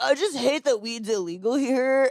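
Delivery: surfer-guy talk from California. Mocking Californians who come here, in a Californian surfer dude impression. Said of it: "They do the voice so well".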